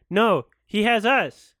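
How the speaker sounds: imitating an unbothered character; mock nonchalant. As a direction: toss it off like it's nothing. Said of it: "It's nonchalantly".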